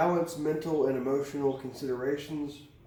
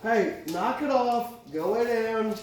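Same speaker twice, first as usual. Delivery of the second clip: higher, louder call of Hey, knock it off; scolding the cat; 7 semitones higher, 4 dB louder than usual. Real, not acted. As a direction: snap the cat off the tarot cards, loud.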